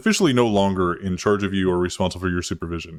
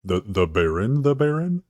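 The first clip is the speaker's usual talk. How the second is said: questioning Lucy. Acted. Lucy querying the mention of the Baron, questioning. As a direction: voice climbing into a question. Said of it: "And Lucy goes".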